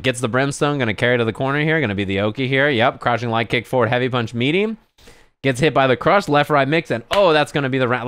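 lightly acted play-by-play; match commentary. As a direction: rattle off the moves like a fighting-game caster. Imitates own live match commentary.

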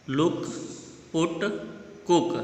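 "लुक, पुट, कुक" said with brief u vowels; short u. Shown as a demonstration. Teacher shows pupils the small u sound, short in "लुक, पुट, कुक". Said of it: "छोटे ओ का sound आ रहा है".

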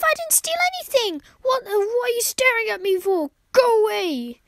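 a player voicing the grumpy owner who wants the cat gone; mock grumpy brush-off. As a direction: play the grumpy owner, pushing the cat away. Voicing Gregory shooing the cat.

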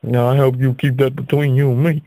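put-on a sudden American accent, confiding. Comic asking the audience for secrecy, American accent. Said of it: "I slipped into an American voice there".

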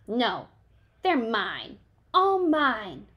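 loud, rising possessive yell; grouchy ladybug screaming over aphids; screamed. A narrator's reading. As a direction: shout it like a greedy bug. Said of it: "screamed the grouchy ladybug".

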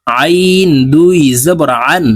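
আইন and আন pressed from the middle of the throat; pressed throat ain. Shown as a demonstration. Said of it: "হলকের মধ্যখান থেকে চাপ দিয়ে". (চাপ দিয়ে হলক থেকে আইন)

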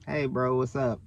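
muted, noncommittal hello back; reluctant reply. Retold or imitated. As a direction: answer with minimal enthusiasm. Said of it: "I'm like".

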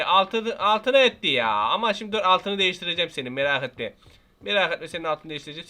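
ordinary talk

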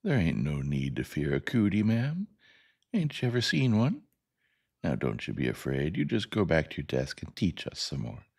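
a hint of a reassuring country boy; lightly played folksy schoolboy, lifting on questions; lightly voiced Little Chuck. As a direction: mildly coax the frightened teacher.

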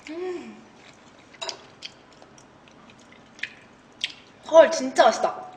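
chewing while talking; speaking between bites of food; mouth full. Real, not acted. Seen 0: Forkfuls of rice go into her mouth; she chews, covers mouth.

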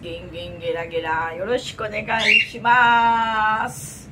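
playful Japanese greeting, lightly voiced; bubbly streamer hello; cute anime streamer.

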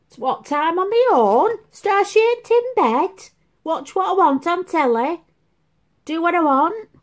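high, loud gloating list; imitating daughter's glee. Daughter boasting to mum, high excited mockery. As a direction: relish the freedom, hammed-up. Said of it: "I kept saying to her".

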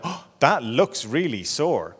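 slow, drawn-out concern; mildly acted tender concern; sympathetic parent. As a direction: validate the hurt with unhurried sympathy. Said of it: "and you tell him".

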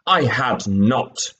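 slow, mildly indignant protest; a touch of offended anger, drawn out; mild angry cry. Acted. The Mouse snapping at Alice, mildly angry and slow. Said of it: "cried the mouse angrily".

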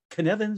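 Cynefin said to rhyme with Kevin; pronunciation of Cynefin. Shown as a demonstration. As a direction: say Cynefin like "kuh-NEV-in". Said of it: "that's the way I say it".

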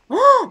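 high, loud gasping cry; shocked yelp. Real, not acted. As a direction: yelp in dismay. Lost arrows in game.

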